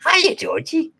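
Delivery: high, sing-song creepy clown greeting; Pennywise imitation. Clown calling to the boy at the drain, high creepy sing-song. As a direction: coo it like a sinister clown luring a kid. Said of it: "you see Pennywise say".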